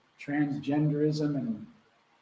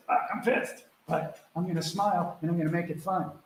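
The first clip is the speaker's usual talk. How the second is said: pissed but smiling; 3 semitones higher than usual. Pretend. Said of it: "even if you're pissed".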